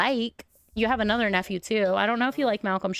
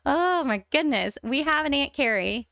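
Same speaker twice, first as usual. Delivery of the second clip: delighted; 6 semitones higher than usual. Real, not acted. Thrilled about new aunt.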